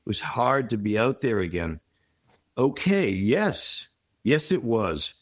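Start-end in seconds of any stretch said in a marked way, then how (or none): 0.0-1.8 heavy sigh. Acted. Person leaving a hard meeting, letting out a heavy sigh. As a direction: let it out like a long sigh. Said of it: "with a heavy sigh".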